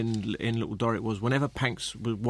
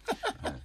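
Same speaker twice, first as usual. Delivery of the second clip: bulldog snort; 7 dB quieter than usual. Retold or imitated. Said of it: "I can do an impression of a bulldog".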